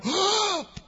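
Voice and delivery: sharp high mock gasp; shocked gasp. Shown as a demonstration. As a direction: gasp as if scandalised. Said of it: "To not go".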